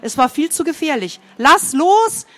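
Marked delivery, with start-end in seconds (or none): 1.4-2.2 high, louder command; commanding shout. A narrator's reading. Boy ordering his friend to let go, commanding shout. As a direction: repeat the order, sharper now. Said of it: "wiederholte er seinen Befehl".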